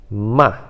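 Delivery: "Ma" forceful and short, dropping all at once; quick, dry, emphatic "Ma"; strong falling tone. Shown as a demonstration. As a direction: strike "Ma" and let it fall. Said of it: "ele é muito forte".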